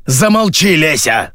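exasperated yell, starting high. A narrator's reading. Radio voice silences Lesya, yelling in exasperation. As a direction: cry out to shut her up. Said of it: "завопила рация".

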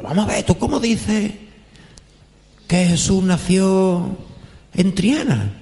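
high, slow, indignant challenge; indignant caller. Retold or imitated. Caller confronting the author, high indignant drawl.

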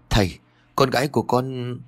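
a father pleading, words tumbling out; stammering in fear. Acted. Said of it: "vội lắp bắp". (lắp bắp sợ hãi, giọng cao)

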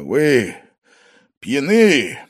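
loud, measured, stern reproach. A narrator's reading. Restrained host sternly addresses his drunk guest. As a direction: speak sternly, holding back anger. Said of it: "заметил он строго".

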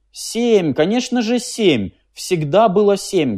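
high, eager, quick to agree; eager agreement. A narrator's reading. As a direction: jump in eagerly to please. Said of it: "горячо подхватил Клопауций". (Клопауций горячо поддакивает машине)

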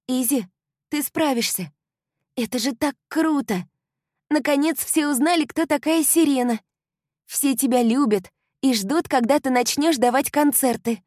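high, loud upbeat friend; eager young woman urging her on; encouraging girlfriend. A narrator's reading. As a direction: cheer her up with bright enthusiasm. Kylie encourages.

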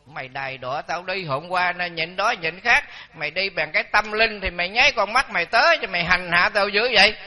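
rising into a loud scold. Retold or imitated. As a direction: scold the spirit, building to a shout. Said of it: "Thầy mới la".

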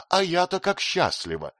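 a shy giggle of happiness; a young wife blushing before her husband's friend; laughing and blushing. A narrator's reading. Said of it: "смеясь и краснея, заявила Софи".

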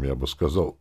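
plain reading voice

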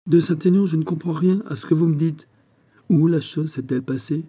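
a king out of patience with his courtier; impatient outburst. A narrator's reading. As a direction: demand it, losing patience. King grows impatient, presses courtier.

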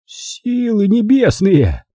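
high, drawn-out exclamation of shock; astonished cry. A narrator's reading. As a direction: cry out slowly in amazement. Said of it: "вскричал дядя". (изумлённый вскрик)

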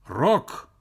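stern. A narrator's reading. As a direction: give the name severely. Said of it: "сурово сказала трубка".

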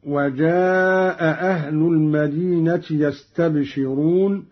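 وجاء أهل with both hamzas kept; standard reading with hamza. Shown as a demonstration. Teacher recites the verse before Qalun's reading. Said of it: "قرأ قالون أيضًا بإسقاط الهمزة".

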